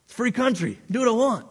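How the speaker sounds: a mock Southerner claiming his rights; hammed-up Southern accent. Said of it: "You say that with enough of a Southern accent".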